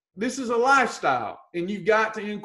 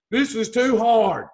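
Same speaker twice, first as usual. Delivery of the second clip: mock whine; 3 dB louder than usual. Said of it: "You can't say things like".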